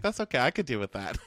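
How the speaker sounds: mock Brienne. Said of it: "listening to your list as Brienne".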